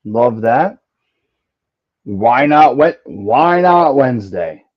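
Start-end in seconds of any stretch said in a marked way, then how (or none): 2.0-4.6 high, loud playful teasing; excited teasing. Real, not acted. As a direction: hype up the theme jokingly. Teasing co-host's theme, loud.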